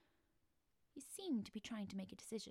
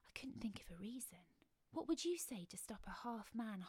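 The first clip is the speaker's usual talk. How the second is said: plain reading voice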